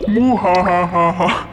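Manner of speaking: slow deep evil cackle; evil laugh. Acted. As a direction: cackle like a cartoon villain. Villain gloats over treasure.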